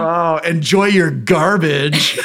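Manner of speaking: slow, sneering send-off; drawn out like a scornful raccoon; slow contempt. Pretend. Husband voicing the lead raccoon's parting contempt. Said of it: "with such contempt".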